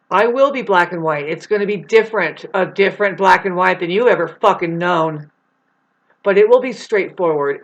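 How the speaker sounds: real irritation, pushed out loud; irate vow. Real, not acted. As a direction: declare it with fed-up force. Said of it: "irate and, and angry".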